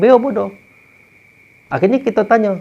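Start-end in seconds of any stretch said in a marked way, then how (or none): 0.0-0.5 a higher, lightly voiced parrot echo; parrot repeating. The parrot echoing its lesson, a light parrot voice. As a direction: squawk it back like a parrot, mildly. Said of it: "nanti dia bilang".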